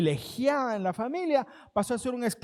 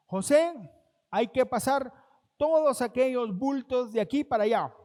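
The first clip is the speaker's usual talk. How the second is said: amo dando órdenes; 3 semitones higher than usual. Acted.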